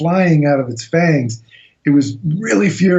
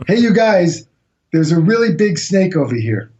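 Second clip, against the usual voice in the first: calm or yelling; 4 semitones higher than usual. Retold or imitated. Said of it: "in a very calm voice, although others claim I was yelling".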